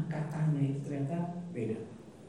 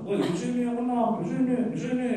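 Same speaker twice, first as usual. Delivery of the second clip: higher, louder, insistent yelling; mock quarrel shout; 9 semitones higher, 4 dB louder than usual. Believers arguing where hands go in prayer, mock heated shout. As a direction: jab the point like a squabble.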